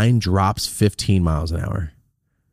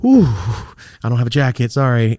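faking being cold; 3 semitones higher, 4 dB louder than usual. Retold or imitated. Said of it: "I was just doing this shit".

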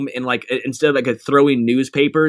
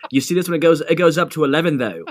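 put-on terrible British accent; 2 semitones higher, faster than usual. Podcast guest quoting a line to the host, terrible British accent. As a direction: attempt a hammy, poor British accent. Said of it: "was a terrible British accent".

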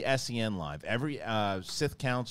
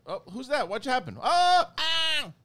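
much higher squeaky startled voice; high mock panic; 6 dB louder, slower than usual. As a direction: play a silly shriek of surprise. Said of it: "I said to".

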